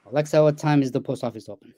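smooth, complete question said in one go; rehearsed command. Shown as a demonstration. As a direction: recite it like a prepared line to a device. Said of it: "That's not how we talk".

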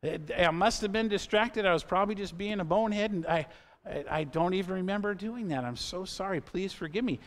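retold heartfelt sorry, held back; tearful apology. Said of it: "I literally got tears in my eyes".

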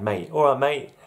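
casual Aussie greeting. Retold or imitated. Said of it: "like me saying".

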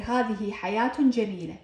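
حياة as "hayaatun", then جميلة as "jameeleh"; "-tun" on حياة, silent t on final جميلة; ta linked, ha at pause. Shown as a demonstration. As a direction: sound t in حياة, stop on h in جميلة. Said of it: "عند الوقف عليها تلفظ هاء".

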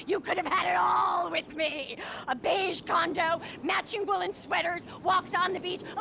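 shouted bitterly, words stretched out; angry shout. Acted. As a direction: yell your ruined dream at him. Woman's furious rant at date.

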